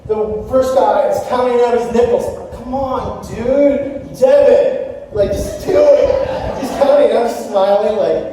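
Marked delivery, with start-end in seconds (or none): 2.5-6.3 higher-pitched exasperated plea; mock impatient urging. Pastor acting out his impatience at a man counting nickels, mock exasperation. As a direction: urge them along, mock-exasperated.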